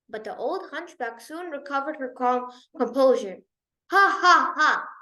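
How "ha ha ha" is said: forced laugh. Acted. Nurse laughs off her mistake.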